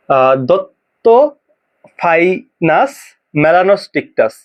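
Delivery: দত্তোফাইনাস মেলানোস্টিকটাস sounded out slowly, stumbling; teacher struggles to say a hard name for the class; struggling slow pronunciation. Shown as a demonstration. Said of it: "কঠিন রে ভাই".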